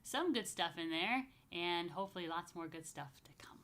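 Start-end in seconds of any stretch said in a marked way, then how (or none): 1.5-3.6 whisper. Real, not acted. Closing wish, whispered.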